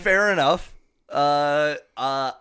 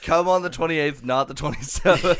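twenty-eighth and twenty-seventh set against each other; stress on the date; 3 semitones higher, 5 dB louder than usual. Shown as a demonstration. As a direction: contrast the two dates. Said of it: "correcting the date".

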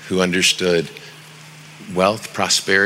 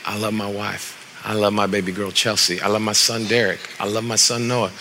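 tender love; 4 dB quieter than usual. Shown as a demonstration. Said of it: "But then I'll turn right around and I'll say".

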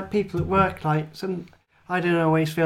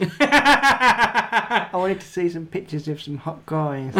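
put-on Essex accent; slower than usual. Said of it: "That sounds like Gemma".

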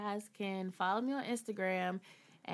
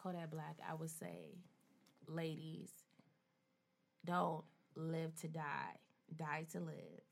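sultry voice. Acted. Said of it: "you gonna put a sultry voice on".

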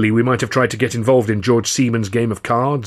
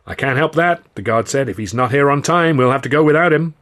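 stern guard; 4 semitones higher, 4 dB louder than usual. Acted. Guard refusing firmly.

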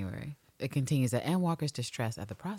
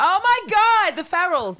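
very high, loud delighted squeal; shrieking laughter; 11 dB louder than usual. Real, not acted. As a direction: squeal it out, cracking up. Cracking up at servants in snow.

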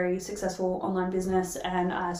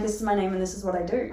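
rote introduction; 4 dB quieter, faster than usual. Retold or imitated. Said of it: "introducing myself and being like".

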